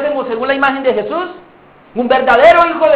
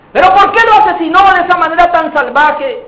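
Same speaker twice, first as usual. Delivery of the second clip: interrogating judge; 5 semitones higher than usual. Acted. Trial questioning the accused.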